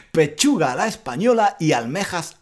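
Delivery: words broken up by real giggles; can't keep a straight face reading it; giggling at the silly lyric; laughing through it. Real, not acted.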